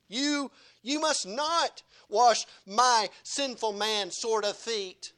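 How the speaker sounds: Peter pleading, slow, starting high; a disciple too awed to let his feet be washed; slow, earnest Peter, pushing the honour away; protesting Peter. Acted. Peter voiced protesting to Jesus.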